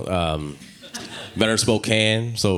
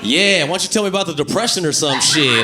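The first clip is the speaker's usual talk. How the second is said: mock passionate lover; 7 semitones higher than usual. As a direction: play a lover moaning a silly name mid-passion. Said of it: "You know how crazy this?".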